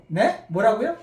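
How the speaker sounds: 뭐라고요 rising at the end like a confused question; puzzled question. Shown as a demonstration. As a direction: ask 뭐라고요 as if you misheard the caller. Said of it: "전화 받을 때만 생각하세요".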